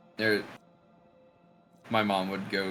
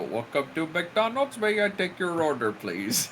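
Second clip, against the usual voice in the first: lilting, higher singsong order-taker; sing-song cashier; 6 semitones higher than usual. Retold or imitated. Teen imitating the McDonald's cashier's musical cadence. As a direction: lilt it like a sung greeting. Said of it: "that's how he would say it".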